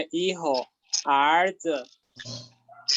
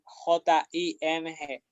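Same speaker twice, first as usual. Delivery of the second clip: J I N G letter by letter, slowly; spelled out slowly. Shown as a demonstration. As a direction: spell out J I N G for the class. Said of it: "spells the syllable". (deletreando despacio)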